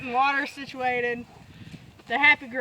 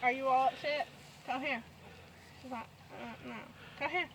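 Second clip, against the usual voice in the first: coaxing cows. Real, not acted. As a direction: coax a shy calf in close.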